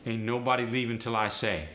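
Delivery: AAVE, Ain't up front. Shown as a demonstration. Teacher demoing AAVE negative. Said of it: "just throw an ain't onto it".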